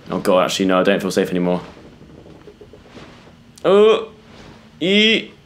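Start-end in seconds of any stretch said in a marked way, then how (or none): 3.6-5.3 startled squeal. Real, not acted. Scared in dark passage.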